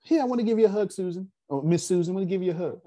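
lightly voiced eager kid; imitating a child. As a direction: act out a young boy offering a hug. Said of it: "he'll be like".

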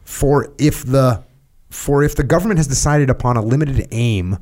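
emphatic book reading, pitch lifted; reading aloud. Real, not acted. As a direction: read the text out with deliberate emphasis.

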